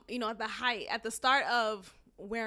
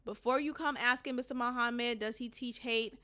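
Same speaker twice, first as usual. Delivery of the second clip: reading a speech aloud; 2 semitones lower, 4 dB quieter than usual. Acted. Host reading Malcolm X's speech to listeners, subdued read-aloud. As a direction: read the quoted speech out evenly, softly.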